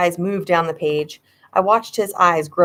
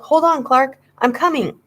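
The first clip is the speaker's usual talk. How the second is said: yelling; 7 semitones higher than usual. A narrator's reading. Yelling to brother while running.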